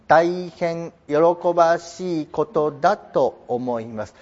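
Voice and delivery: slow, measured official delivery; lightly voiced reserved imperial announcement; a hint of formal restraint; stiff formal statement. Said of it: "本当に喜んでんのって感じですよね".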